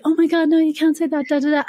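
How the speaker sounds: mock-horrified mum telling off a child; a hint of a scandalised parent; scolding parent.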